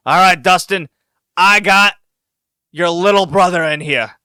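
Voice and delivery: put-on awkward half-drunk Terry Funk. Terry Funk taunting Dustin over his brother, mock drunken awkward. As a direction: slur it a little, loud and awkward. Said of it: "very awkwardly, like he's half drunk".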